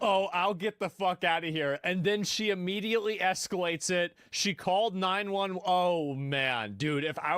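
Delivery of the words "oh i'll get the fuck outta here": sneering replay of the woman's words in a put-on voice; mocking imitation. Streamer mimicking the entitled caller to his viewers, mocking. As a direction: parrot her back with a sarcastic edge.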